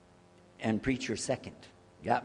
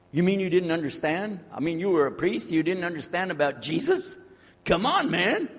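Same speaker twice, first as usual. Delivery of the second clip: incredulous questions rising to a high protest; mock disbelief; 4 semitones higher than usual. Non-Muslim questioning the former priest, mock incredulous. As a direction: imitate someone who can't believe it.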